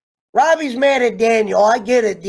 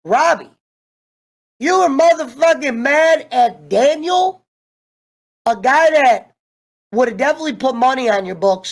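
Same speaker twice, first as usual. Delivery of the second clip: stunned realization; 3 semitones higher than usual. Retold or imitated. Fan reacting aloud to Robbie's juvie friend, stunned. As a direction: play the moment it finally clicks. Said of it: "I go".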